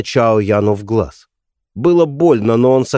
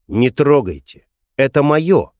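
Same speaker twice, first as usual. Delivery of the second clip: indignant; 4 semitones higher than usual. Acted. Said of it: "возмутился Чао Ян".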